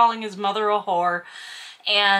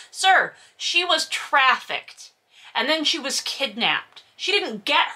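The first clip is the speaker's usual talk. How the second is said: indignant; 4 semitones higher than usual. Real, not acted. Indignant rebuttal to character.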